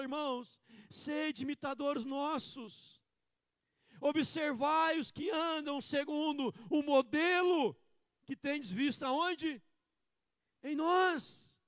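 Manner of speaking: slow, loud preaching, words drawn out; fervent preaching. Acted. Pastor preaching Paul's words to the congregation, fervent. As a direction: preach with full conviction.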